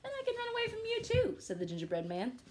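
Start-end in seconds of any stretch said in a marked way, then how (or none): 0.0-1.3 fast and much higher; boastful. Acted. Gingerbread man bragging to the wolf, fast and high. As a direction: rattle it off, gleeful.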